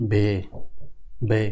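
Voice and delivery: "বে" as German W, a long "veh"; German letter W. Shown as a demonstration. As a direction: repeat "বে" as separate, level syllables. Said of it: "তাহলে এর উচ্চারণ হবে".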